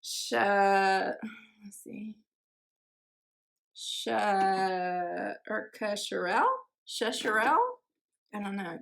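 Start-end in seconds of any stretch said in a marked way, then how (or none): 0.0-1.1 "Sha-" as a drawn-out first syllable; hesitant attempt at "Sha-"; tentative pronunciation. Real, not acted. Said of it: "I'm gonna mispronounce this". 3.7-7.6 sounding out "Kasharel" and "Shasharel" as questions; unsure stab at "Shasharel"; tentative pronunciation. Real, not acted. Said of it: "I'm gonna mispronounce this".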